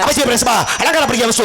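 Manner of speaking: full-on theatrical self-announcement; shouted name recital. Acted. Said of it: "ஏன் இப்படி பயமுறுத்துற".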